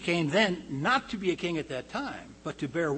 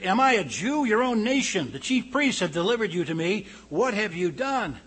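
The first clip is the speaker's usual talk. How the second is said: indignant Pilate; 5 semitones higher, 6 dB louder than usual. Acted. Pilate's indignant questions to Jesus.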